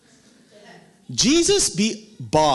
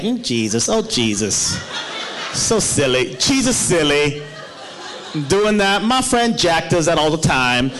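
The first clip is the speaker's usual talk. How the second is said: blasé disciple; 4 semitones lower than usual. Retold or imitated.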